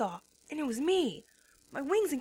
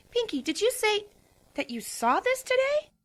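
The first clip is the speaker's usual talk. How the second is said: Twilight stammering; 8 semitones higher than usual. A narrator's reading. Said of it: "Twilight stammered, still very tired".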